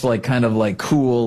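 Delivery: ordinary talk, nothing marked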